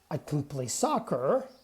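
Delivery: "can" reduced to "kun", weight on "soccer"; unstressed can. Shown as a demonstration. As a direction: slip lightly over "can" as a weak "kun". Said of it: "can is not stressed".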